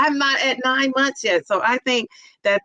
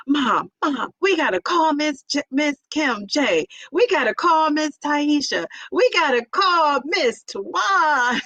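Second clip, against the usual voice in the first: excited daughter; 5 semitones higher, slower than usual. Retold or imitated. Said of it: "she's all excited".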